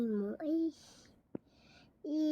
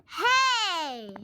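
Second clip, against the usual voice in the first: upset cry; 5 semitones higher, 8 dB louder than usual. Real, not acted. Upset at game.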